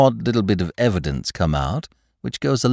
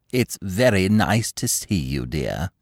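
imperious plummy grande dame; 4 semitones lower, slower than usual. Acted. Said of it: "said the Dowager Duchess placidly".

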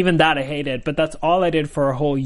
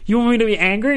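incredulous; 8 semitones higher, 4 dB louder, faster than usual. Retold or imitated. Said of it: "I was like".

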